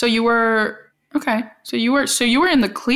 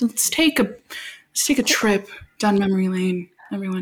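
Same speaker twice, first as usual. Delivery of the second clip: calm crisis counselor. Acted. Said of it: "This is my therapist's voice".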